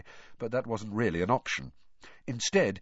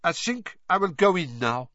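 cold voice; 8 semitones higher, 4 dB louder than usual. A narrator's reading. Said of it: "as cold as her voice".

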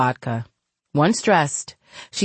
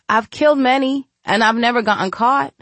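lightly voiced young woman; 7 semitones higher than usual. Farah's dialogue, voiced.

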